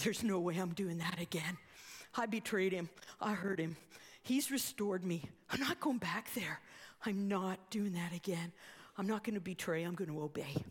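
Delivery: low, determined refusal, retold; firm resolve. Peter refuses religious leaders' order, firm resolve.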